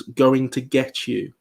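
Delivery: spelled out slowly, word by word; slow and deliberate, every word clear; slow spoken quote. Shown as a demonstration. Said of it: "So I believe what we hear is".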